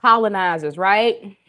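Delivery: half-shouted jokey jab, loud; loud playful jab at the viewers; loud joking call-out. Real, not acted.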